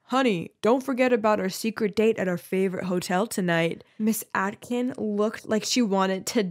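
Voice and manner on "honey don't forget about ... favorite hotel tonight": lightly voiced older sweetheart; a hint of a put-on mature caller; funny older-man accent. Joe prank-calling the teacher as her lover, mock-older accent. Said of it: "he'd put on a funny accent".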